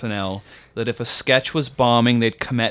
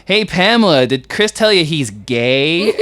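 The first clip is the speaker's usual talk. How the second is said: loud call, then drawn-out jab; imitated public needling; Norm Macdonald; 2 semitones higher, 4 dB louder than usual. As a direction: call out, then slow down for the roast. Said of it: "He's like".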